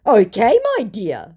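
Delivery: high, loud opening, dropping away; hammed-up term of endearment; put-on scammer voice. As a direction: play the smarmy scammer up high. Voicing the second scammer.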